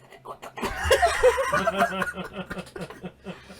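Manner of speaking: long breathy high laugh; giggling hard; high laughing fit. Real, not acted. Laughing at the second try.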